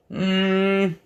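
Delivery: high, pinched polite no thanks; unimpressed refusal. Retold or imitated. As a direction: turn it down with mock disdain. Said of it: "then you're kinda like".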